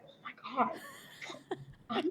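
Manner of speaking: retold hushed disbelief; hushed shock. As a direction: act out a quiet, stunned realisation. Retells reaction to own confession.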